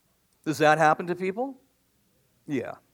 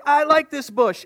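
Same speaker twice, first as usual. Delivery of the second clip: wandering sheep; 9 semitones higher, 5 dB louder than usual. Acted. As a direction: play a greedy sheep eyeing a bush. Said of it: "So they go over to the bush and like".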